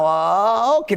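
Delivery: drawn-out, unsure okay; confused reply. Retold or imitated. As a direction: stretch the oh, not sure what's happening. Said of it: "they're confused".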